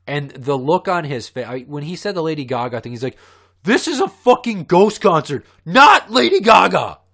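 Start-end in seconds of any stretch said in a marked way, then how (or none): 3.6-7.0 high, loud, whiny nerd sneer; loud, high imitation of the nerdy teen's comeback. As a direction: repeat the snotty kid's line in his voice. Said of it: "I'm not exaggerating, that's how he sounded".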